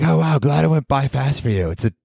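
high sarcastic listener voice; high snarky mock listener. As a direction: sneer as bored listeners. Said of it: "They're like".

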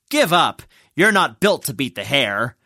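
dismissive heckle from the crowd; scornful spectator's taunt; mocking jeer. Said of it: "was ridiculed by some of the spectators".

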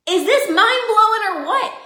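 animated hype question; excited. Real, not acted. Excited rhetorical question to viewers.

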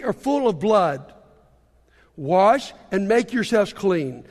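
scripture reading. Acted. Preacher reading Isaiah to the church, weary and reproachful. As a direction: read the Lord's complaint with measured weight. Reads God's words from Isaiah.

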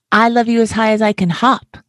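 high, bouncy, laughing little hare. Acted. Little hare bragging to his father, high and laughing. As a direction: giggle the line out like a bouncing child. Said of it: "laughed Little Nut Brown Hair".

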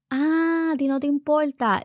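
high-pitched mock disbelief; incredulous mother's comeback; indignant retort. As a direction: challenge the child back. Mother retorts to defiant daughter.

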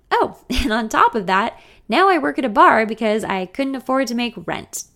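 laughing. Acted. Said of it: "I laugh".

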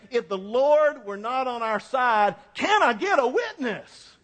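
rising preacher cadence, calling for a witness; Black preacher call-and-response. Retold or imitated. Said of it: "We put it in kind of African-American language".

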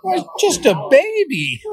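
gentle father. Retold or imitated. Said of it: "father's reply".

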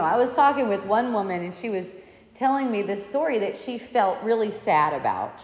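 ordinary delivery

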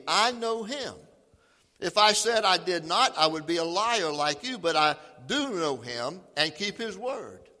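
measured Bible reading; scripture reading. Acted. Preacher reading John eight to the church. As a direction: read the passage with weight. Reads the scripture passage aloud.

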